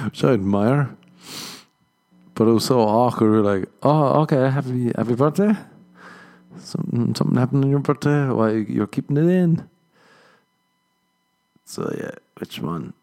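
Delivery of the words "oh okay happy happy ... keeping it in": baffled. Retold or imitated. Confused reaction to secret birthday.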